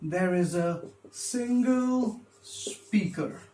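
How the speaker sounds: slow, spaced out for note-taking; writing it down. Real, not acted. Lecturer writing the first thing down for students, slow dictation. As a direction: say it slowly, pausing between words while writing. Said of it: "I'll just write it down".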